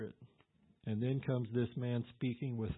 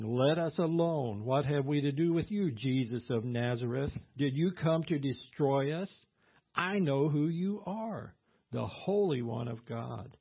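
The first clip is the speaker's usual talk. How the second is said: demon's terrible cry; 3 semitones higher, 5 dB louder than usual. Acted. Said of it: "This is a deep, throaty, terrible cry".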